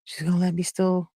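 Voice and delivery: high, quick, sly delight; teen girl plots to keep partying; gleeful inner voice. Retold or imitated. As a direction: thinks she's found a loophole. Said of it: "'Cause I'm thinking".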